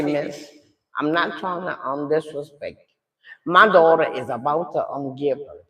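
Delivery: low, soft, restrained politeness; holding herself together. Retold or imitated. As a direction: keep your composure with the operator. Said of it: "I'm trying to hold myself together".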